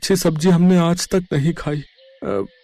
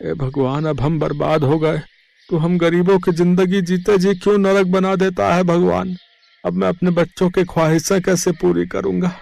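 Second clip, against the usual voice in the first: lament to God. Acted. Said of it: "फूट फूट कर रोने लगा".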